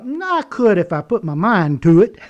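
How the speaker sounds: attempted British with a Southern sound; Southern-tinged mock British; bad British accent. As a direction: try a British accent and miss. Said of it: "could you be a British guy or something".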